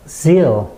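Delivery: strong, falling "zeal"; stressed syllable. Shown as a demonstration. Teacher isolates the stressed syllable, firm "zeal". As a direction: hit "zeal" as the only stressed beat. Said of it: "요 단어만 강세를 넣고".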